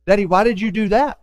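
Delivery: lightly voiced curious child, rising; a child pestering dad, ending on a rise; mimicking a child. A pastor imitating a child pestering dad with why. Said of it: "a why child in your house".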